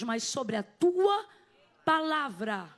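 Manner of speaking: TUA drawn out loud, then palavra dropping low; emphatic declaiming. Retold or imitated. Peter yielding to Jesus's word, slow emphatic declaiming.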